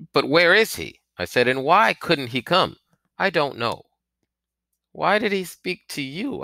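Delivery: put-on high anxious boy; nervous rising questions; frightened. A narrator's reading.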